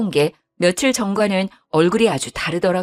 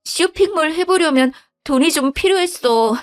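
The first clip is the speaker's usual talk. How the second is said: put-on higher, flustered young wife making excuses; pleading wife; 8 semitones higher than usual. Wife justifying loans. (당황해서 변명하는 며느리 목소리)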